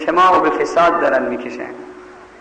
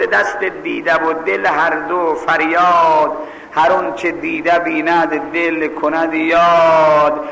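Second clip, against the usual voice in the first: recited verse; slower than usual. Acted. Poem verse recited slowly.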